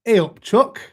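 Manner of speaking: loud, high-pitched Yorkshire greeting; Yorkshire accent. Shown as a demonstration. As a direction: call it out in a put-on Yorkshire accent. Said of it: "Can you do a Yorkshire accent?".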